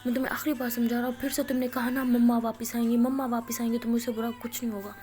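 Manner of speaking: loud, quick scolding; retold scolding. Uncle warning Maya one last time, loud fast scolding. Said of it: "uncle ڈانٹ رہے ہوتے ہیں".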